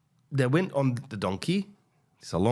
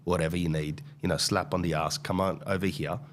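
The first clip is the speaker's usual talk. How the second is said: coaxing; 3 semitones lower than usual. Retold or imitated. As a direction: gently coax the animal across. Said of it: "delicately brings him over".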